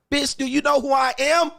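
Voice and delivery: high-pitched, indignant mock outburst; mock outrage. Man retorting to woman who won't fetch water, hammed-up indignant.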